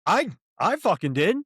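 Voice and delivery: real heated retort with big pitch swings; yelling back. Real, not acted. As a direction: fire back, indignant. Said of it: "So don't yell at me".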